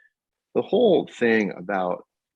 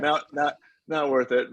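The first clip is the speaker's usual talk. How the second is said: higher, with a laugh in the voice; laughing aside; 7 semitones higher than usual. Retold or imitated. Recalling not correcting the French fan, laughing lightly. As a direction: chuckle the words out as a shrug.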